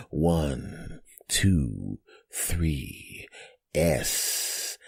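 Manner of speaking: slow, soft signature goodbye; signature sign-off. Real, not acted. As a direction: drop into his trademark sign-off. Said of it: "the way I always say goodbye".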